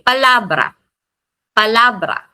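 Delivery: palabra with stressed LA, falling after; rising on the A. Shown as a demonstration. Teacher repeating the example, stress on LA in palabra. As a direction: push up the middle A in "palabra". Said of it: "Pataas sa letter A".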